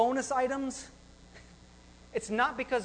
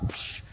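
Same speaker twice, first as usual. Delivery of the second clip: imitated gift noise. Imitates grandma producing another gift.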